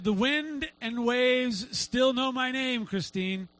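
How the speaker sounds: slow, drawn-out words, easing on the name; God's voice, retold. God reassuring a worried woman in prayer, slow and solemn. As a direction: stretch it out, sure and unhurried. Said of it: "God whispered that to her heart".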